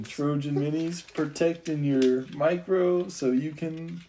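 slow, deliberate sponsor spiel; mock ad read. Podcaster improvising a joke sponsor spot, mock ad read. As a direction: draw out the slogan like a fake ad.

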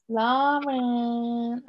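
Lauren said with an American twang; American accent. Real, not acted. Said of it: "I did that whole American accent again".

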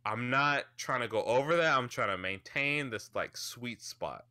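tipsy, lips gone numb; numb lips from drinking. Real, not acted. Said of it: "where I can't feel my lips".

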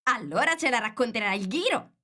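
shouted together. A narrator's reading. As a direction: call it out all at once. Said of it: "gridarono all'unisono".

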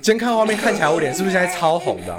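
flustered and giggly; fighting back laughter; trying not to laugh. Real, not acted. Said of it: "我现在脸好烫哦".

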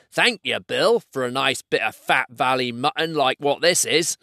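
lightly voiced Cockney-style troll; a touch of troll indignation; grumbling troll William. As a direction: grumble at your mate as a troll.

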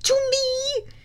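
high, drawn-out desperate plea; desperate summoning cry. A narrator's reading. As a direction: call out loudly, stretching each word. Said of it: "I thought desperately".

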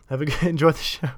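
high, loud cheery send-off with a laugh; imitating ticket guy. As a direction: laugh through a mimicked usher's farewell. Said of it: "He says".

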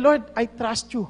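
a gentle hint of a trusting prayer; humble prayer.

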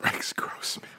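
whispered in disbelief. Real, not acted. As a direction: breathe the name in disbelief. Incredulous echo of wrong name.

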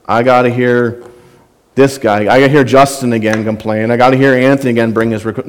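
a hint of a bored, put-upon king; annoyed sigh. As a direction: play a God fed up with complaints. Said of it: "sits on his throne and says".

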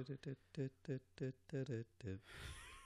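soft staccato "dit-dit-dit" beat; quiet mouthed beat imitation; vocal rhythm ticking. Real, not acted. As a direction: tap out a song riff with the tongue. Vocalising a song's beat before naming it.

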